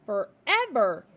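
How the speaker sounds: slow loud wail; a child despairing; crying. A narrator's reading. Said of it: "Matilda cried".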